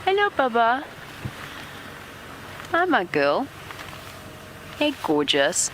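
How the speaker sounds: soft, fond hello to an animal; tender greeting. Real, not acted. Guide greets the lioness softly so as not to startle her.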